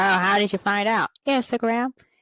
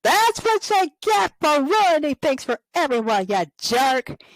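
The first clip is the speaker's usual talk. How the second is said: a hint of a higher gloating girl; gloating Shuri; 5 semitones higher than usual. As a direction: taunt the beaten villain, then cheer. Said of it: "Shuri's like".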